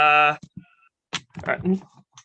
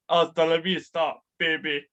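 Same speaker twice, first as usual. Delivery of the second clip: Schwarzenegger impression; 3 semitones lower than usual. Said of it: "the Arnold Schwarzenegger".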